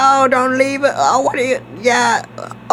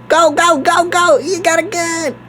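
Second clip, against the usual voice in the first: high, squeaky panicked yelling; 5 semitones higher than usual. Pretend. Player urging his buddy to flee the gunman, squeaky. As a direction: squeak it out like a frightened kid. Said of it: "oh, that was too squeaky".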